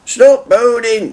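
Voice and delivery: slow, stern driver's rebuke; driver telling off. A narrator's reading. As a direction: drag it out, scolding. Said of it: "said his driver".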